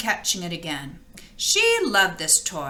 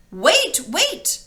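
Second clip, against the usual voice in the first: mild mock cry of wait, a little higher; frog crying out; 5 semitones higher than usual. Frog calls to the running princess, mild cry. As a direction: call after the fleeing girl, lightly. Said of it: "cried the frog".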